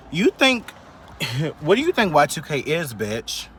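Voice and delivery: high, loud, half-laughing challenge; high, loud laughing scoff at the commenter; laughing disbelief. Real, not acted. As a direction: laugh at how clueless they are. Laughing, incredulous rant at commenter.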